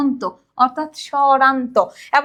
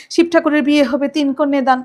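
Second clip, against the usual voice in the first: speedy rhyme beat. Shown as a demonstration. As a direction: rattle off the rhyme in a bouncy, quick beat. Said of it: "এটা এভাবেই চলে যাচ্ছে".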